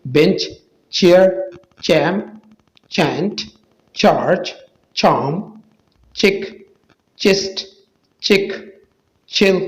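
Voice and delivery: example words one by one, CH said "cha". Shown as a demonstration. Teacher drilling digraph examples for viewers, CH as "cha". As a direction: say each word separately with CH as in "चा". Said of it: "सीएच चा का आवाज़".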